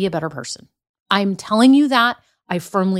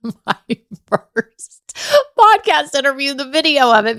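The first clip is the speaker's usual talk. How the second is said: laughing through the words; cracking up as she says it; giggly, breaking into laughter; 4 semitones higher than usual. Real, not acted.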